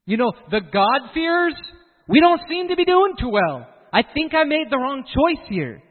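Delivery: high, loud voice of a regretful man; regretful Asaph. Retold or imitated. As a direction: whine as if you picked the wrong team.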